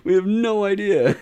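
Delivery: mock panicked elves. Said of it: "They're like".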